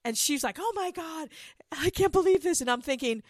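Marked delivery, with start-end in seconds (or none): 0.6-2.6 high, gushing delight, louder at the end; squealing mock amazement; imitated gushing. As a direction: gush like she just got Jimmy Choos. Imitating Rachel's delight over shoes.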